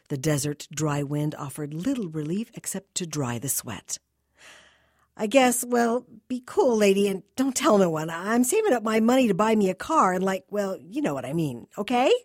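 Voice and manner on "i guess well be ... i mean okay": put-on higher, louder slangy teenage boy; jittery teen pleading with the lady. A narrator's reading. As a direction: play the nervous kid, pitched up and loud. Teen boy voiced in story.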